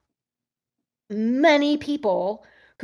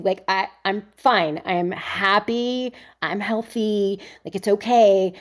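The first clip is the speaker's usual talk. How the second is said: reassuring; 2 semitones higher than usual. Retold or imitated. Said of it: "I'm like".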